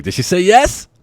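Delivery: high and loud, eager; eager waiter. Retold or imitated. Waiter coming back to ask the couple, high and eager. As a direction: burst in hoping for good news.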